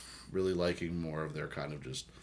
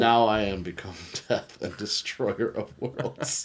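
dramatic quote reading; 3 semitones higher, 4 dB louder, slower than usual. Retold or imitated. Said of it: "Oppenheimer quote".

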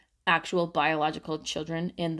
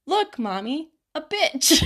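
higher and louder, imitating an excited toddler; loud child's cry; 9 semitones higher, 5 dB louder than usual. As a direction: blurt it out like a proud little kid pointing. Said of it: "said rather loudly".

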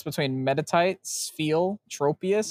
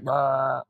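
imitated Pokémon cry. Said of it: "the next spot is like".

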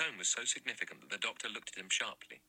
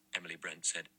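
ordinary delivery

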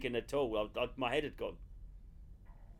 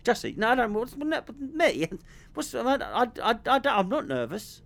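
higher, louder stammering denial; hammed-up stammering; 7 semitones higher, 6 dB louder than usual. Parodying the friend's claim he stuttered, stammering. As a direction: trip over every word pretending panic. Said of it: "You didn't stutter over your words like that".

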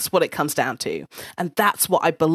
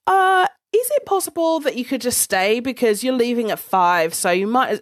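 imitating a boss in a higher pitch; mock raised-voice request, high at the start; slightly raised voice; 6 semitones higher than usual. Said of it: "he raised his voice a little bit".

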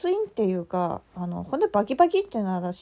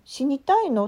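a touch louder mock scolding; mild imitated telling-off; angry rebuke; 4 semitones higher, 4 dB louder than usual. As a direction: retell the teacher's sharp jab. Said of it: "むっちゃ怒られました".

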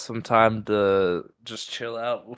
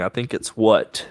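"I think it's what?" falling on what like a statement; "I think it's what?" as a flat statement, no rise; stated, not asked. Shown as a demonstration. Insisting it's a statement, "I think it's what?" falling. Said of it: "I'm stating".

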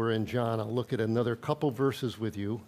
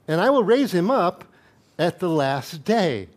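proclaiming; 4 semitones higher, 5 dB louder than usual. Acted. Preacher proclaiming scripture climax.

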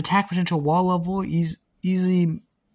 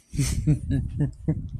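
evil cackle; 3 dB quieter than usual. Acted. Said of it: "lets out an evil cat".

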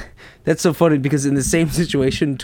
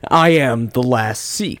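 mock epic hero; 3 semitones lower, slower than usual. Mock Last Samurai trailer line.

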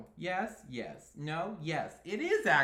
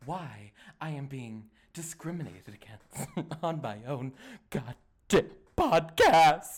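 mock outrage; 8 dB louder than usual. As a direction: swell into a hammed-up indignant shout. Mock protest building to an outburst.

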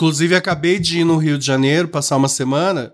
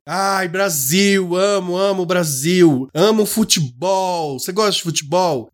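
higher, slow, gushing Venezuelan taxi driver; imitating the taxi driver; 4 semitones higher, slower than usual. Retelling the taxi driver's delight at meeting a Brazilian. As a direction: draw out the fan's excitement. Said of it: "ele falou assim".

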